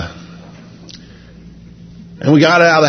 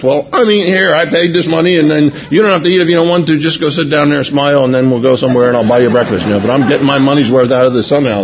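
mock-indignant digging in; retold stubborn retort; 4 semitones higher, faster than usual. Husband refusing to waste the paid breakfast, stubborn retort. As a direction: start high, settle as you insist.

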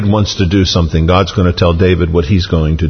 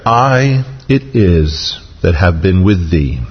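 slow, with "I" drawn out; emphatic, lengthened "I"; stress on I; slower than usual. Shown as a demonstration. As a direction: lean on "I" and stretch it before the rest. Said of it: "it's emphatic".

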